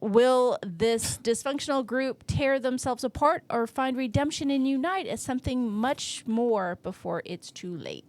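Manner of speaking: measured movie-trailer style read; synopsis read. Acted. Host reads the film synopsis to co-host, as a dramatic blurb.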